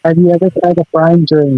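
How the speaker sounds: muffled underwater sound; like talking from under water. Real, not acted. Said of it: "you definitely sound like you're underwater".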